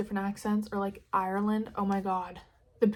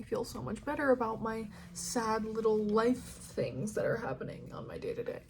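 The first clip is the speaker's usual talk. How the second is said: mock-emotional, soft and pitched up, then trailing off; dramatic; 3 dB quieter than usual. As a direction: gush tearfully in a hammed-up small voice. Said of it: "That's kinda dramatic".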